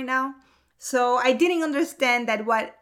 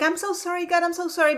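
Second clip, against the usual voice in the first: higher, hurried mock apology; anxious apology; 6 semitones higher, much faster than usual. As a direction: apologize in a retold panic. Acted panicked apology to God.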